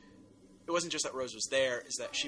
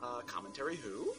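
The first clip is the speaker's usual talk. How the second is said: podcast promo read. Acted. Hosts promoting their new feature, announcer read. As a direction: sell the next episodes to listeners.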